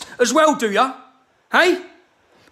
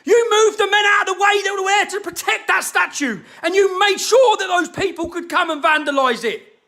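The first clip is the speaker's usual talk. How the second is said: angry; 3 semitones higher than usual. Real, not acted. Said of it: "I'm getting so fucking angry".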